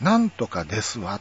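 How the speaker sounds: ordinary talk, nothing marked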